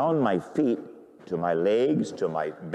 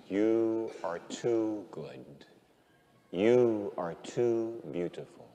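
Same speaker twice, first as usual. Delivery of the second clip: very slow, low, soft adoration; hushed awe; 6 semitones lower, 6 dB quieter, much slower than usual. Retold or imitated. Priest marvels at God's goodness, hushed awe. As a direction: let each word out slowly and quietly, overwhelmed. Awed words to God after realization.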